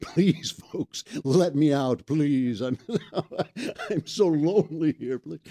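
hammed-up plea to be freed; mock pleading. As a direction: beg to be let out, playfully. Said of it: "I feel like".

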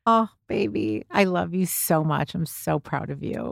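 soft, fading tender reply. Real, not acted. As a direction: hold her close with the words.

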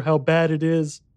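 put-on high child voice; grave little boy, pitched well up; solemn young boy. A narrator's reading. Boy admitting the horror, solemn child voice. Boy speaking, later echoed by narrator.

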